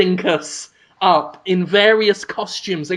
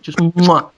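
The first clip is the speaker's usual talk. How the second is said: kiss sound. Shown as a demonstration. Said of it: "like that".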